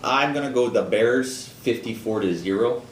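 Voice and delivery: bad Chicago sports-fan accent. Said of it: "That's my worst Chicago accent".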